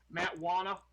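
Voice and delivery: lightly voiced Boston accent; a quick, half-hearted Boston accent. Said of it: "in my terrible Boston accent".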